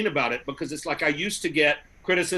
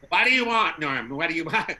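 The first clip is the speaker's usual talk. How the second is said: camp gay Jewish comic voice, hammed-up; Paul Lynde. Asked for a gay Jewish one, camp impression. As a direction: put on a campy Jewish accent. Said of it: "That would be Paul Lynde".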